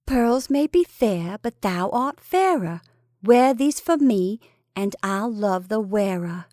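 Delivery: slow, measured reading of a love verse. A narrator's reading. Reading a valentine's posy from a scrap of paper, verse reading. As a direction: recite a little posy with lilting care.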